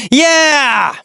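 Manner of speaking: high, drawn-out whoop; excited cheer. Real, not acted. Cheering that the lessons are finished.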